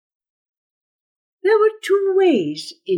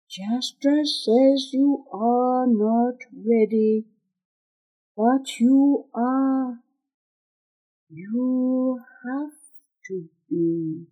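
slow, measured warrior's voice, fading softer; dream warrior; 4 dB quieter, slower than usual. Acted. Warrior appearing to Gon as he drifts toward sleep, slow and solemn. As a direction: draw the words out, lightly voiced as a warrior.

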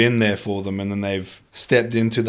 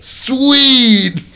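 laughing; 10 dB louder than usual. Retold or imitated. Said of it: "Dude, where's my car?".

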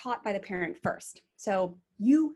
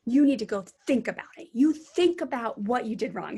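louder parental command; stern parent order; 2 semitones higher, 5 dB louder than usual. Retold or imitated. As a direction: order her off to think it over. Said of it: "we'd say".

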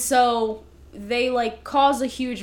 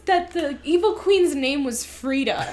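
laughing; 5 semitones higher, 6 dB louder than usual. Real, not acted. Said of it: "laughing while retelling".

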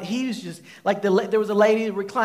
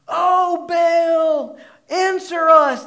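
high, loud pleading cry to Baal; retold shout; 8 semitones higher, 7 dB louder, much slower than usual. Priests of Baal shouting for their god to answer, loud and high. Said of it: "they shouted".

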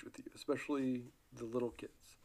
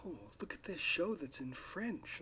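higher, eager parent voice pitching a show; a parent selling a French show, voice pitched up high; mock excited parent; 6 semitones higher, 4 dB quieter than usual. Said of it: "be like".

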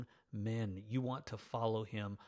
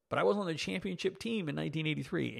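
mock boast; 6 semitones higher, faster than usual. Real, not acted.

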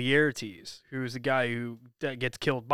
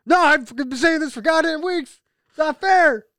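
put-on New Jersey accent; 14 semitones higher, 9 dB louder than usual. Continuing the Jersey rant.

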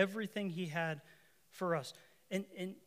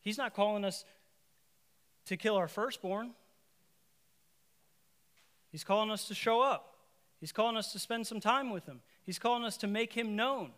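higher, louder preaching build; fervent preaching; 4 semitones higher, 4 dB louder than usual. Real, not acted. Preacher exhorting the congregation to show up, fervent. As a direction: press the call home.

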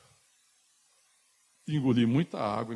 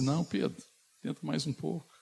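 higher-pitched, teasing refusal; mock encouragement; 5 semitones higher than usual. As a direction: send up an unhelpful rescuer. Mockingly voices an unhelpful Jesus. (incentivo de deboche, voz aguda)

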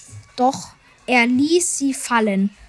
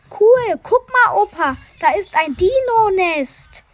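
put-on much higher and louder, thrilled kid; excited discovery; 8 semitones higher, 3 dB louder than usual. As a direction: call out a big find. Boy discovers dinosaur nest.

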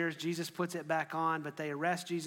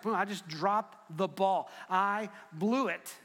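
slow, heavily spaced words; acted realisation of failure, drawn out; stunned admission; slower than usual. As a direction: let each word land slowly. Peter realising his failure, acted.

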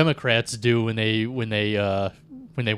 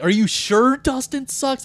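imitated boss; 13 semitones higher, slower than usual. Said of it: "it's like".

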